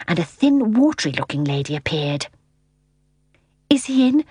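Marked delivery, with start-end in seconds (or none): 3.7-4.2 put-on higher-pitched eager boy's question; quickly. A narrator's reading. Michael at the just-opened door, quickly. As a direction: blurt it out as a boy would. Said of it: "said Michael quickly".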